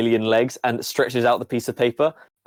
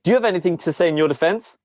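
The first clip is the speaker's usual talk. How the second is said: higher and fast, interrogating; centipede bot; 5 semitones higher, faster than usual. Acted. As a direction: rattle off the accusation like a machine judge. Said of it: "and says".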